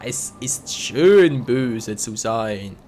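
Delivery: slow, relishing evil gloat; villain gloat. Pretend. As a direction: savour being the bad guy.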